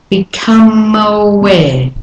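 "Become aware." drawn out slowly; slow demo. Shown as a demonstration. Teacher slowing a phrase to show linking. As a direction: stretch it so the link is heard. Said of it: "notice that as I go".

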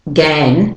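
"gan" with a clear open "a"; wrong full vowel. Shown as a demonstration. Teacher showing what it's not, full vowel. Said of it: "so it's not".

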